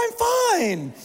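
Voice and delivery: very high squeaky 'I'm fine'; strangled falsetto denial; mock forced cheer. Husband answering Jill's worry, high and strangled. Panicking man insists he's fine.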